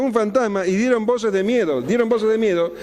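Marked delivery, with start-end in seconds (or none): 0.0-0.7 frightened cry. Retold or imitated. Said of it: "se turbaron diciendo".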